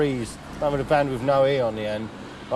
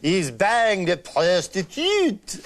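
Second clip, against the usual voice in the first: excited laughing reaction; 2 semitones higher, 4 dB louder, much slower than usual. Real, not acted.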